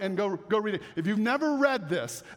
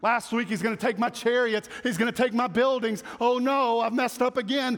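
mock panic. Preacher mimicking panicked believers, mock frantic alarm. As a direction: ham up a frantic sinner. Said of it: "we think that's what God desires".

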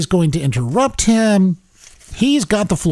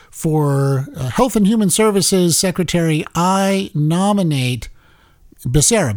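clear, careful version. Shown as a demonstration. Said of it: "he wants to be saying something like".

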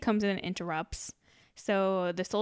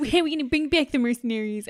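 laughing mockery; 4 semitones higher, 5 dB louder, faster than usual. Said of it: "And he's like".

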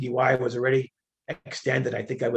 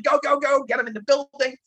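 yelling; 10 semitones higher than usual. Retold or imitated. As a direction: shove everyone along, yelling. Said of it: "started yelling".

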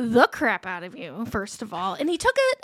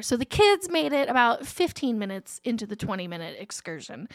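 ordinary delivery

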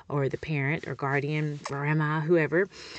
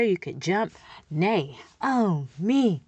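slow syllables; much slower than usual. Shown as a demonstration. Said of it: "jumping out syllables".

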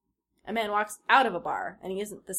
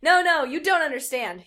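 high, louder pleading; desperate protest; 8 semitones higher, 10 dB louder than usual. Acted. John pleading with the chanting crowd, desperate.

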